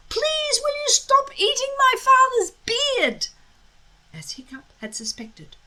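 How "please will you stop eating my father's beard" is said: high, strained polite yell; mild yell. A narrator's reading. Hiccup politely yelling at the dragon, high. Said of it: "yelled as loudly as he could".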